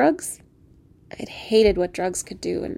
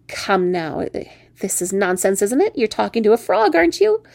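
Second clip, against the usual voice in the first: chiding talking frog; 3 dB louder than usual. Acted. Frog chides her.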